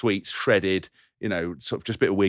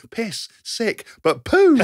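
mock shout; 12 semitones higher, 4 dB louder, much slower than usual.

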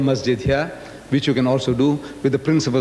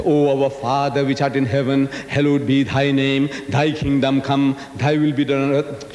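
prayer recitation. Retold or imitated. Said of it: "the Christian prayer".

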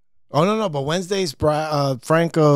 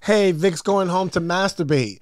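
higher-pitched mock yell; retold taunting yell; 5 semitones higher than usual. Boy yells after a kid walking home from school, retold mock yell. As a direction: call it out like a schoolyard heckler. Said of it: "David Traxler yelled out".

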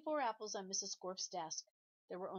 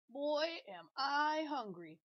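higher, louder, slow drawn-out hunger; hungry exclaim; 7 semitones higher, 6 dB louder, much slower than usual. Acted. The yard teacher eyeing the apple, drawn out and loud. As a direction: relish the thought of food.

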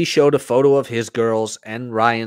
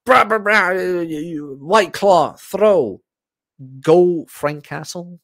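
mock bro voice; 6 semitones higher, slower than usual. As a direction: ham up a brash meathead. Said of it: "Instead of".

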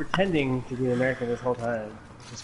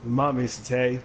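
lightly drawled film impression; a hint of a simple Southern voice; Forrest Gump. Player recalling film quote for partner, lightly drawled impression. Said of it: "how's the quote go?".

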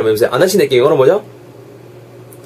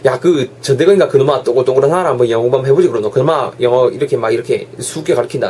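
Gyeongsang dialect; 3 semitones lower than usual. Acted. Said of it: "사투리 써가면서".

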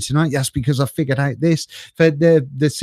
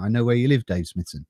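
mock menace; 5 semitones lower, 5 dB quieter than usual. Jokingly threatening a viewer.

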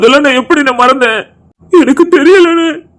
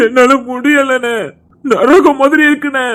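broken grief; slower than usual. Acted. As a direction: let the words sag under the grief. Grieving brother breaks down. (மெதுவான மென்மையான துயரக் குரல்)

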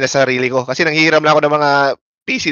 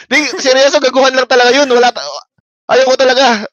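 laughing protest; 9 semitones higher, 4 dB louder than usual. Real, not acted.

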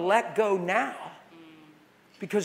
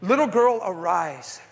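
forceful command; 3 dB louder than usual. Retold or imitated. Loud take of same command.

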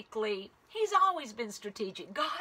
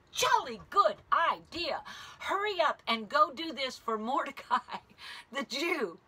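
jolly king; 3 semitones higher than usual. Acted. King voiced with British phrase.

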